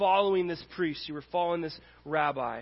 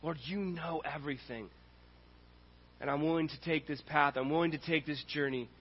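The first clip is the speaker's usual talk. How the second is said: earnest Peter; 5 semitones lower, 7 dB quieter than usual. Acted. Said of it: "But he goes".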